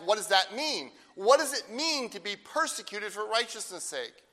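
ordinary delivery

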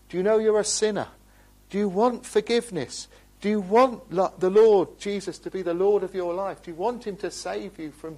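loud, high, urgent questions pressed on the hearers; a preacher's call ringing across the hall; fervent pleading. Real, not acted. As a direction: plead with them at full voice. Preacher's loud altar-call appeal.

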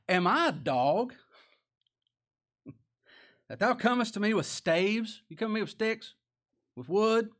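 loud, high indignant challenge; preacher booming as an insulted giant; appalled Goliath. Acted. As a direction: throw out each question in offended disbelief. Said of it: "just appalled at this".

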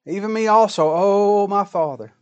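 high, loud begging plea to a father; bitter pleading cry. Acted. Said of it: "he cried with a great and exceeding bitter cry".

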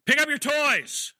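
slow, drawn-out mock holler. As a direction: holler it at the stubborn kid. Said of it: "hollering to get compliance".

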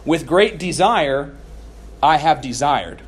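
great drawn out slowly and leaned on; emphatic literal reading. Shown as a demonstration. Preacher reads the Greek to the congregation, slow and emphatic. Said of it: "it actually reads".

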